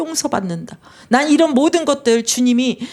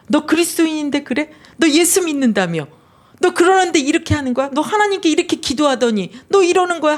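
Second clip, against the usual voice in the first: higher, pushy accusing voice; accusing devil; 5 semitones higher than usual. Retold or imitated. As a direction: needle the believer like the accuser. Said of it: "참소하고 고소하고 정죄를". (정죄하는 마귀처럼 높고 다그치는 목소리)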